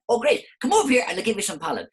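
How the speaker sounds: very high, loud delighted flower; squeaky flower invitation. Acted. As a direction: offer pollen like a beaming flower.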